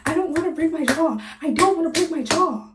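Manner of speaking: half-hammed tearful wail; mock wailing. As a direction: whine it like a crying teen. Retelling crying fear.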